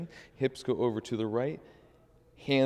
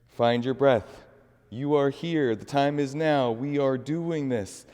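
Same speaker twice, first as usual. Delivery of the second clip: louder, higher, pushing the class on; rousing encouragement; 4 semitones higher, 6 dB louder than usual. Acted. Teacher urging class through chair pose, loud and rousing. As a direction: pump them up through the hold.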